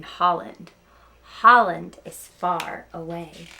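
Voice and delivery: lively read-aloud storytelling; story narration. Acted. Teacher reading Knuffle Bunny to her students, storytelling voice. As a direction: tell it like story time for kids.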